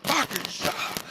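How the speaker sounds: high-pitched retold yell; acted-out exasperated outburst; yelling back. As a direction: shout it over someone screaming, voice pushed way up. Shouting back over screaming priestess.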